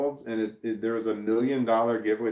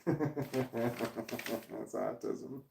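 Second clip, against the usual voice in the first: laughing; 10 dB quieter, much slower than usual. Real, not acted. Laughing self-diagnosis aside.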